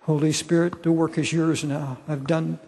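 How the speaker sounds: praying aloud with long pauses between phrases; earnest prayer. Real, not acted. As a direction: address God directly, phrase by phrase.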